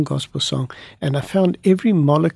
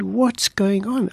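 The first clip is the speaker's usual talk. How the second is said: slow, higher-pitched retold astonishment; astounded; 5 semitones higher, much slower than usual. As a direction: draw the question out in amazement. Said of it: "I was astounded".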